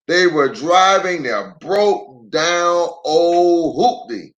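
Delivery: put-on gentle read-aloud for little kids; unhurried picture-book narration; story narration. A narrator's reading.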